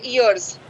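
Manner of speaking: ईयर्स said the Indian way, ee-yars with a rolled r; plain Hindi-English ईयर्स. Shown as a demonstration. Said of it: "अब हम ईयर्स बोलते हैं". (ईयर्स देसी उच्चारण में)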